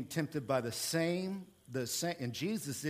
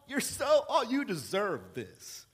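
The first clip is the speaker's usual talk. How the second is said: flattering Satan; 4 semitones higher, slower than usual. Acted. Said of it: "Satan will say that".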